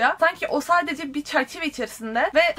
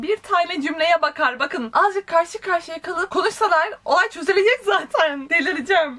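slow, raised-pitch exasperation; exasperated; 4 semitones higher than usual. Real, not acted. Reader despairing at characters who won't talk, real exasperation. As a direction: stretch it out as if being driven mad. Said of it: "ben gerçekten delireceğim ya".

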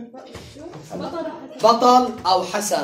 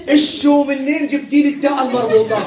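laughing disbelief; 4 semitones higher, 4 dB louder than usual. Real, not acted. Teacher laughs at student's mistake.

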